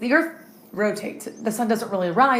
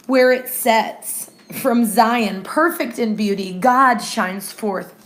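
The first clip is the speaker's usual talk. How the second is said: unhurried Bible reading; scripture reading. Acted. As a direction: read each line aloud with weight. Reads Psalm fifty aloud.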